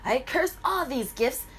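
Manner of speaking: high, loud cackling witch curse, slowing down at the end. Acted. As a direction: shriek the curse like a gleeful fairy-tale witch. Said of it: "the witch comes in and she's like".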